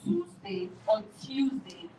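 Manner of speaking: two slow takes of "Tuesday", Toosday then Tyoosday; drawn-out demo of "Tuesday"; American variants. Shown as a demonstration. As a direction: contrast the openings of "Tuesday" slowly. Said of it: "Americans actually say".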